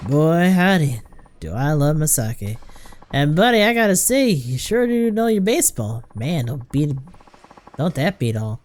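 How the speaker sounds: lightly voiced folksy boozer, effusive; jovial drinker. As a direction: gush like a tipsy new buddy.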